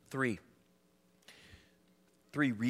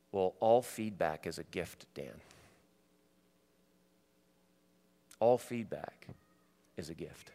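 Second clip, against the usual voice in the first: a gentle, kindly advisor lightly voiced, fading softer; 6 semitones lower, 4 dB quieter than usual. Advisor kindly counsels pastor after his sob story, gently. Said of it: "he just very kindly said".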